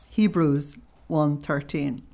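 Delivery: slow, careful repeat of "Hebrews one thirteen"; slow dictation. Real, not acted. Repeating the reference slowly for the audience to note. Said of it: "I want to give you Hebrews one thirteen".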